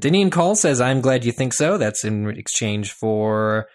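loud, hurried reading of tweets; rushed tweet reading. Acted. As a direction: race through them against the clock. Racing through tweets in time.

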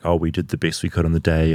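low, quick, rote player quote; imitating a boring athlete's routine answer; bored stock answer. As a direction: reel it off like a dull press-conference line. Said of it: "are so boring".

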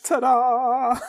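high loud showy ta-da; hammed-up ta-da with a laugh; mock magician. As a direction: present the trick with a flourish. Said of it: "And she's like".

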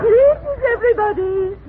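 gushing, thrilled hello; excited greeting. Acted. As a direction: greet the cast all aflutter. Prompter opens the play excitedly.

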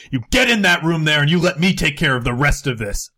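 fast, commanding order; intimidating. Acted. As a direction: bark him into the room. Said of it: "use intimidation and tell him".

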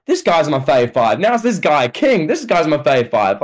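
mild mock yell, pitch jumping up midway; Booker T. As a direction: imitate an excited commentator without really shouting. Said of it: "your Booker T yelling about".

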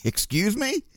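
mock-polite little query.

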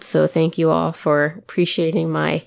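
croaky from a cold; hoarse, gravelly cold voice. Real, not acted. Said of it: "my lovely, gravelly voice".

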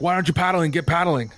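mildly heated in-character scolding; impatient order. Acted. Crewman barking orders in game.

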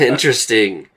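lightly theatrical interest; intrigued actor. Acted. Actor hearing of the visitors' studies, mildly grand intrigue. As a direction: savor the word as if fascinated. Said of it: "he's making it sound cooler than it is".

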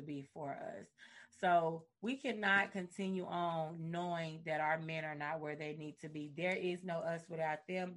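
slow, sincere plea to listeners; earnest speech. Acted. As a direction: deliver it like a heartfelt appeal. Earnest address to women.

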